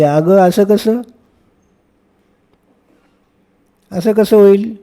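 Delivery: mother to daughter, astonished; surprised mother. Acted. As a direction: act amazed the sweets vanished. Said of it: "आईला नवल वाटले".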